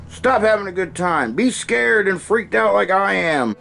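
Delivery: prédicateur furieux, voix haute et forte; preacher yelling. Retold or imitated. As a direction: engueule la foule comme un prêcheur exalté. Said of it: "He's like".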